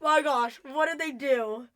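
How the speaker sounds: a high, loud burst of alarm that quickly settles; mock freak-out. Fan retelling her panic at the blonde nurse, high and loud. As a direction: relive the shock of spotting the blonde nurse. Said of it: "I was freaking out".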